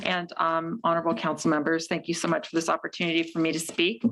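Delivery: muffled behind a face mask; through a face mask. Real, not acted. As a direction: talk through a mask over the mouth. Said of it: "can you hear me okay with the mask?".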